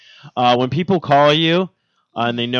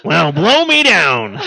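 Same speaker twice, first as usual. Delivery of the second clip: Popeye-ish catchphrase; 3 semitones higher, 4 dB louder, much slower than usual. Retold or imitated. Popeye reference after Wimpy quote.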